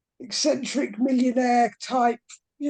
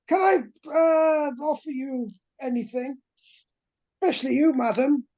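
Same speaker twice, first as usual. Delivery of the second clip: put-on posh British accent; 2 semitones higher than usual. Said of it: "quite a posh, uh, British accent".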